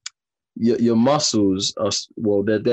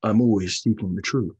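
mock actorish. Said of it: "I will say something really actorish right now".

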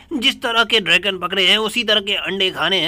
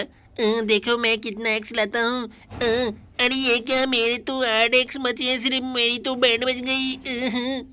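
raised cartoon kid voice, dismayed; Shinchan voice; 4 semitones higher than usual. Shinchan sees only eight x left, dismayed kid voice. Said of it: "भाई Shinchan हूँ ना".

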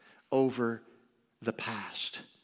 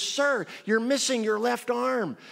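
high, loud, slow mock cop; 10 semitones higher, 6 dB louder than usual. Cop telling the driver about his arm, hammed-up. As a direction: announce it with mock gravity.

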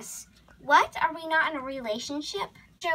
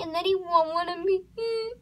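mock tearful fretting; 5 semitones higher than usual. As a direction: pitch climbing into a little whimper. Horse frets about being rejected.

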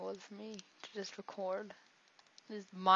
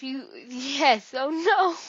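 much higher, much louder panicked shout; panicked yell; 6 semitones higher, 13 dB louder, much slower than usual. Real, not acted. Gamer about to die in the match, panicked shout. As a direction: shout in alarm.

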